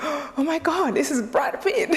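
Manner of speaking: giddy fan voice breaking into laughter; excited squeal. Retold or imitated. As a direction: squeal like meeting your idol. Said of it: "I'm screaming".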